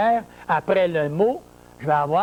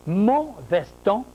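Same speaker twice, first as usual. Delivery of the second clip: «mon» stressed, slow and drawn out; slower than usual. Shown as a demonstration. Teacher stressing «mon» for the class. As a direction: lean hard on «mon». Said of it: "quand je dis «mon»".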